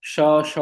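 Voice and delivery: श, श said with a crisp sh hiss, not स; two clean sh sounds; clear sh sound. Shown as a demonstration. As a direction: demonstrate श distinctly as sh. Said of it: "श को स बोल जाते हैं".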